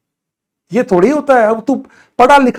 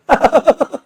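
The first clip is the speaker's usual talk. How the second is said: short laugh; 6 semitones higher than usual. Real, not acted. Laughs at spammer.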